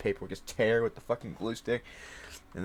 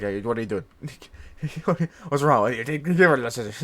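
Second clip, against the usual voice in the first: louder, half-playful imitation of an exasperated dad; dad's mock yelling; 6 dB louder, much faster than usual. Dad catches kid with scissors, mock yelling louder. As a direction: play the dad shouting at a kid holding scissors, hammed-up. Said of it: "my dad would be like".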